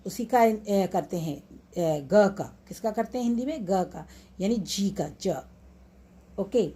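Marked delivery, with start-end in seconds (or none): 2.0-2.3 ग said as a hard g; hard G sound. Shown as a demonstration. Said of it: "one hard sound". 5.2-5.3 ज said like an English j; soft G sound. Shown as a demonstration. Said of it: "इसको soft sound बोलते हैं".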